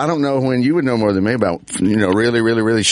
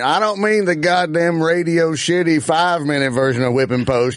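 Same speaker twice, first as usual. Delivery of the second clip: retold girlfriend; 4 semitones higher than usual. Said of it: "She went".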